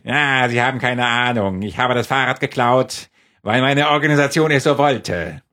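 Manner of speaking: villain voice. Pretend. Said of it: "so sprechen böse Menschen".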